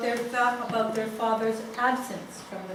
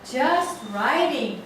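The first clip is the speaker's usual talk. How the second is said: scornful echo; 3 semitones higher, 6 dB louder, much slower than usual. Retold or imitated. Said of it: "says the father".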